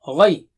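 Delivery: Ghay, heavy throaty gh, mouth full; thick high gha. Shown as a demonstration. Teacher models a thick, high gha. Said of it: "Gha is thick and high".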